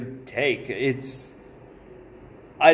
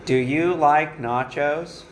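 slow, deliberate impression of Gerald Ford; slower than usual. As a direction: drawl it out like an old president. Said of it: "This is an impression of your daddy".

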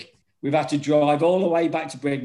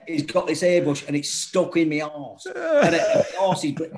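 laughing through the words; can barely get it out for laughing. Real, not acted. Telling his mate the prank, laughing at the memory.

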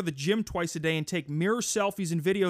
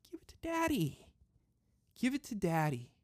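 seductive daddy voice; 3 semitones higher, 5 dB quieter than usual. Pretend. Breathy come-on to listeners.

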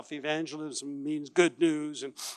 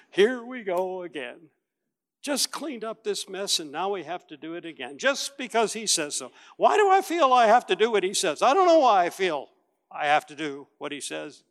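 exasperated grumble building to a loud, fast outburst; grumbling Peter; 3 semitones higher, 5 dB louder than usual. Acted. Peter grumbling to himself about fishing again, exasperated. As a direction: vent the grudge, louder and quicker toward the end. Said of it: "what Peter was thinking".

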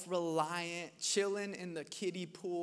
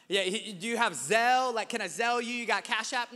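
pleading; 4 semitones higher, 7 dB louder than usual. Retold or imitated. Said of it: "I was like".

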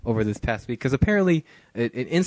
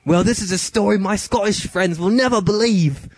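put-on much higher, louder girlish voice; girl's voice; 8 semitones higher, 3 dB louder than usual. Host reading the girl's texts in a high girl voice.

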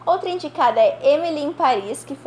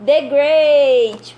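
loud, excited award reveal; hyped winner announcement; 2 semitones higher, 8 dB louder than usual. Acted. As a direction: announce the winner like a big surprise.

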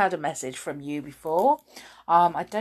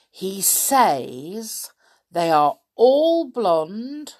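slow, deliberate riddle read; 3 dB louder, much slower than usual. Acted. Host posing a tricky riddle to listeners, slow and deliberate. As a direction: lay out each clue slowly for the listeners. Reads the day's riddle slowly.

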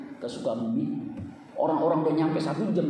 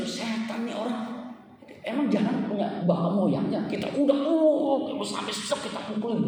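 raised, indignant mock cursing; acted anger; 6 semitones higher than usual. Preacher imagining rage at a rude driver, mock angry. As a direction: act out wanting to thrash someone.

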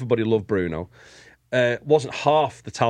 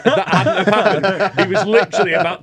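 laughing; 7 semitones higher, 6 dB louder than usual. Real, not acted. Laughing over near fight.

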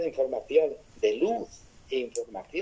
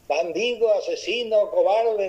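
yelled insults; 7 semitones higher than usual. Retold or imitated. Boy yells insults into cave.

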